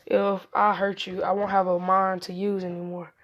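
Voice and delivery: repeating the threat out loud; a loud, plain retelling of the whispered threat. Retold or imitated. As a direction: say it back boldly for all to hear. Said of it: "he said".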